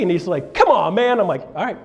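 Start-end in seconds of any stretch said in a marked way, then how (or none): 0.5-1.2 impatient mate. Retold or imitated. Buddy impatient at race start. 1.5-1.8 loud, slow, higher race starting call; mock starter's shout.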